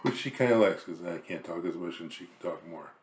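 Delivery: winded, short of air; out of breath. Real, not acted. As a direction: speak as if winded. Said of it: "I'm getting winded already".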